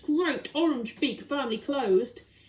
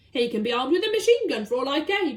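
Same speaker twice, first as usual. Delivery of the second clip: louder defiant roar; bellowed; 2 semitones higher, 5 dB louder than usual. Acted. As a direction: brush off the danger loudly. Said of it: "bellowed the Duke".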